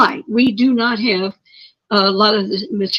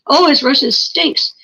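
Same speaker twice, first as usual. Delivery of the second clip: imitating the wife's scornful jab, slowed; a slow, mocking put-down; mocking sneer; 4 semitones higher than usual. Wife mocking her husband's Russian, scornful and slow. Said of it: "wife would make fun of him".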